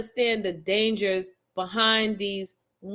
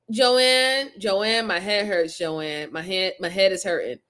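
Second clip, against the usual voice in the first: mock complaint; 4 semitones lower than usual. Complaining of a headache.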